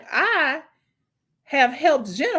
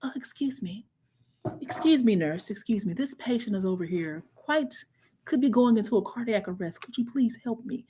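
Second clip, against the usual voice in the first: overly polite hushed request; sarcastic proper-lady voice, softer; mock polite whisper; 4 dB quieter than usual. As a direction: tiptoe it, prim and quiet. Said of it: "I'm supposed to".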